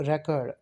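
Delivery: "record" as a noun, weight on its opening syllable; first-syllable stress. Shown as a demonstration. Teacher showing the noun form, "record" stressed on the first syllable. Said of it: "give the stress on the first syllable".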